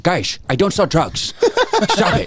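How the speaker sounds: slow protest that jumps high on stop it; imitating a classmate. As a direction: mimic the kid denying he sells drugs. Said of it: "it's a perfect impression".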